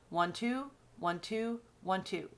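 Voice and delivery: "one, two" in even pairs, stepping down to the last; counted in pairs. Shown as a demonstration. Teacher counting two-syllable feet, in rhythmic pairs. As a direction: count "one, two" as a repeated two-beat foot. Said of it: "A two syllable foot".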